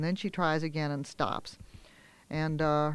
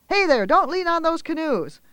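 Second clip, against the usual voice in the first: much higher, louder telling-off; lifeguard scolding; 11 semitones higher, 7 dB louder than usual. Acted. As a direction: snap a warning across the sand.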